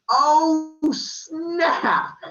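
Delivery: high, loud startled yelp. Acted. Leto seeing the giant anaconda land, startled yelp. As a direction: yelp it like you just got caught.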